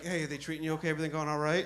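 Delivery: soft, gentle imitation of a kindly cop; nice guy. Imitating nice cop checking on arrested kid, soft and kind. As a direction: play the good cop, checking in softly. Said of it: "this nice guy comes in".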